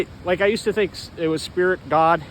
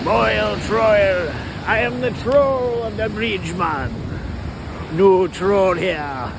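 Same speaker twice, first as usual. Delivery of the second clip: put-on troll from under the bridge; drawn-out fantasy troll; much slower than usual. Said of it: "trolls sound like".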